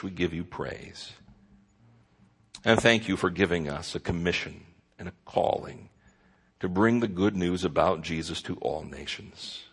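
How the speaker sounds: steady, earnest pastoral prayer voice; closing prayer. Acted. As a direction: pray aloud for the congregation.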